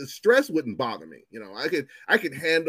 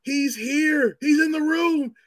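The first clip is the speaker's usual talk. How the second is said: terrified whisper-scream; 13 semitones higher, 6 dB louder, slower than usual. Retold or imitated. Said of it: "the last thing you hear is".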